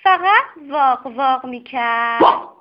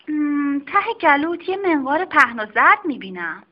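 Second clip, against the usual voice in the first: a brisk doctor examining a patient; doctor's voice; 3 semitones higher than usual. Acted. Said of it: "خانم دکتر دوباره گفت".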